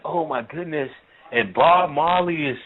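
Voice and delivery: lightly acted swoon over a dream, pitch lifted; mock-rapturous girlfriend recounting her dream; gushing retelling.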